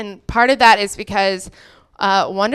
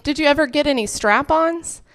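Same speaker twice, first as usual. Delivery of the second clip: lightly voiced mom, higher pitch; casual higher-pitched maternal question; mom's question; 5 semitones higher, 3 dB quieter than usual. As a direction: ask it innocently as mom, pitched up. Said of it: "And she said".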